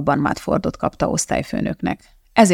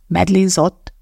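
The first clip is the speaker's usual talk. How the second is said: mild disbelief while reading a name; incredulous. A narrator's reading. Parking attendant reading the notebook cover, incredulous. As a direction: read the name out as if doubting it. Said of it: "olvasta hitetlenkedve".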